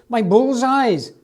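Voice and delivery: drawn-out shouted question; shouting. Acted. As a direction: Missus Williams shouting for her sweets. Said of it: "shouted Missus Williams".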